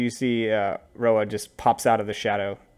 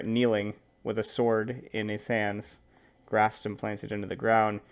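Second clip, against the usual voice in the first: measured game master narration; scene narration. Acted. Game master unveils the armored knight to players, measured narration.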